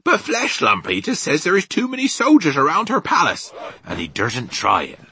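loud, high rustic giant; BFG, emphatic. Acted. Giant telling Sophie of the palace soldiers, emphatic.

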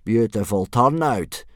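loud, slow, approving; sergeant's drawn-out compliment; congratulating. A narrator's reading. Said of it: "Gobber congratulated Thuggery the Meathead".

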